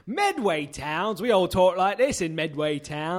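put-on slow, drawn-out Wiltshire accent. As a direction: lay the Wiltshire accent on thick. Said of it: "It's just my Wiltshire accent".

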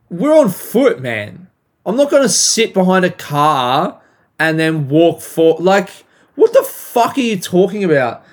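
retold argument, pushing back with some force; exasperated retort. Acted retort to the woman.

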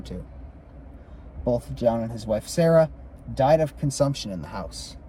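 measured read-aloud of a ghost account; story narration. A narrator's reading. Co-host reads the Griffith haunting aloud, story narration. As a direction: read it out as a haunted-house history.

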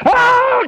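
high, loud wild mock scream; maniac scream. Preacher acting out the Gadarene maniac, wild high scream. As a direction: let out a wild madman's howl. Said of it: "He'd go".

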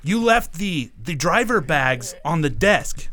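imitated indignant boss, high and slowing; Sam accusing. Boss blaming employee over driver bags, mock indignant accusation. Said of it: "he's already threatening".

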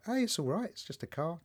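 calm a tearful stranger gently; softly reassuring, letting the last words fall away; so zen. Retold or imitated. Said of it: "And I was so zen".

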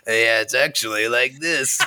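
gravelly voice. Retold or imitated. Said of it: "did, like, a gravelly voice for every person".

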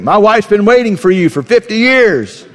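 husband laughing with relief to the robber. Retold or imitated. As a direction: tell the robber the punchline through laughter. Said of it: "He's like".

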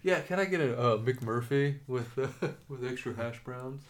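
giggling through a pretend drive-thru order; laughing mock order. Co-host laughing through a fake burger order. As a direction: order it while cracking up.

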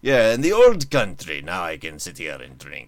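a loose hint of an Eastern Bloc accent; lightly put-on old-world Eastern Bloc voice, half joking; terrible Eastern Bloc accent. Host jokes he can finally drink on air, in a light mock Eastern Bloc accent. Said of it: "That's a terrible accent".

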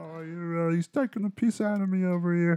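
high-pitched imitation British accent; mock British accent. Co-host playing along about having the piss taken, mock British accent. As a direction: join in with a high, put-on British voice.

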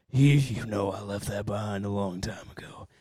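low gravelly voice; gravelly and world-weary. Pretend. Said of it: "gravelly voice".

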